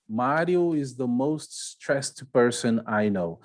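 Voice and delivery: the example read slowly for learners; slow example sentence. Shown as a demonstration. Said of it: "Esse aí". (frase de exemplo lida devagar)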